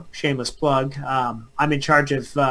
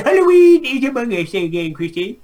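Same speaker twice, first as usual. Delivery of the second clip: spooky announcer; 7 semitones higher, 3 dB louder than usual. Pretend.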